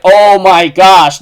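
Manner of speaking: slow, loud "oh my gosh"; drawn-out amazement. Retold or imitated. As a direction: stretch it out in awe. Speaker's stunned reaction.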